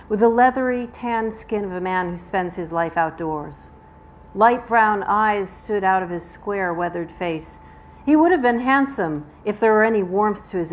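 measured audiobook-style reading; deliberate storytelling delivery; story narration. A narrator's reading. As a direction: read the tense scene aloud, phrase by phrase. Restarts reading the novel.

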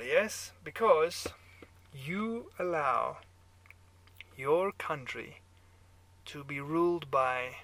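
put-on loud, goading German-accented speech. A narrator's reading. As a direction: provoke him slowly in a German accent. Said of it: "your German accent".

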